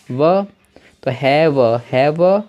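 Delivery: व said alone as a short clear model sound; letter sound demo. Shown as a demonstration. Teacher shows students how to say व. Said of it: "वी को हम पढ़ते हैं व".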